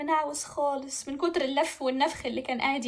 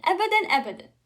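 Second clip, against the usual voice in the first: "أبدًا" repeated higher and loud; emphatic refusal; 6 semitones higher, 8 dB louder, faster than usual. Acted. Princess refuses to marry prince, "أبدًا" emphatic and loud. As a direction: hit each "أبدًا" hard.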